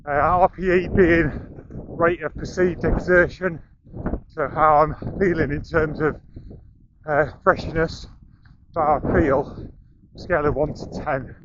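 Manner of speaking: talking mid-run, short breaths; speaking while jogging along; while running. Real, not acted. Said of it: "We're running up the coast".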